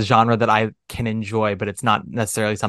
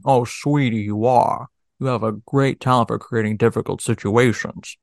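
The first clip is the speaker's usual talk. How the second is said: Jimmy Stewart impression. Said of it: "you get a little bit lower".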